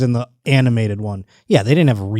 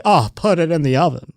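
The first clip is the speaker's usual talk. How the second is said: higher, camp comic actor voice; Paul Lynde; 4 semitones higher than usual. Shown as a demonstration. Improvising a game-show answer, camp impression. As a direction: improvise in a hammed-up, swooping camp voice. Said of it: "I can just do the voice".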